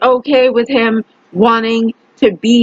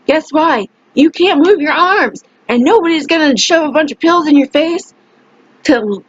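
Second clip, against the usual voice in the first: higher-pitched, emphatic retold scolding; angry warning; 4 semitones higher than usual. Telling the man he is not strong enough, angry. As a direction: set him straight with heated insistence.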